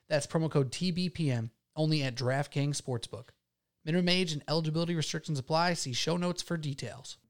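smooth, quiet sponsor read. Acted. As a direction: read it like a radio ad. Reads sponsor ad.

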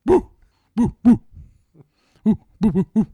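high, loud ghostly woos. Retold or imitated. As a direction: hoot like a cartoon ghost. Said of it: "what does a ghost say?".

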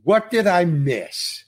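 jolly, drawn-out question, playing it breezy. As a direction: retell a cheerful, unworried actor asking slowly. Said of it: "I'm drunk and jolly".

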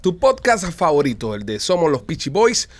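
big radio host intro; radio announcer voice. Acted. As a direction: announce it like a DJ on air. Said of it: "Estamos hablando con voz de locutores".

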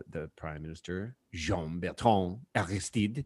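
soft, slow newsreader with French-style names; mock a soft public-radio voice; imitating NPR announcer. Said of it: "he goes".

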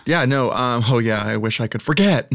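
teeth chattering; shivering, teeth chattering. Real, not acted. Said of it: "My teeth are chattering".

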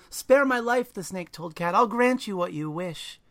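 high, loud pleading snake voice. Acted. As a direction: beg for your life as the snake.

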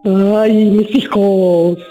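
slow, stretched, held-back mock wail; a ghost wailing from hiding; timid Llorona cry. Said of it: "parece que está escondida".

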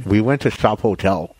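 talking around a cigar; slurred lisp with a cigar in mouth. Real, not acted. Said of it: "when I have the cigar in my mouth, I speak like".

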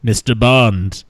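lightly voiced gloating supervillain; Bond villain. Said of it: "Elon Musk sounds like a Bond villain".

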